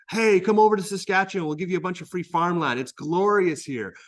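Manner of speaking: propaganda pitch. Pretend. Teacher mimics propaganda advert.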